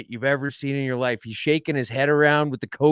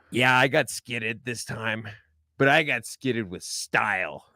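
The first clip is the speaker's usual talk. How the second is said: put-on bashful drunk; slower than usual. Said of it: "looks at us all bashfully".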